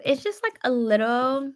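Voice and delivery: high, lightly voiced valley girl; white girl voice. Shown as a demonstration. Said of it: "I like putting on my white girl voice".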